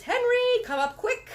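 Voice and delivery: high, loud yell for Henry. A narrator's reading. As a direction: shout for help up the stairs. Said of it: "And she yells".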